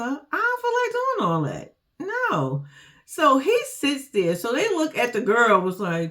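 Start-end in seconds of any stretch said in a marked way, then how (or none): 0.0-2.6 loud slow refusal. Retold or imitated. Voicing Daniel refusing to chase.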